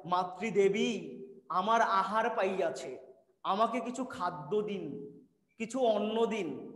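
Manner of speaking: put-on a child comically begging his mother for food in stilted formal Bengali; mock formal speech. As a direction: pompously ask mother for food in old-fashioned Bengali. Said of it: "ঘরে যাওয়ার পরে বলতাম".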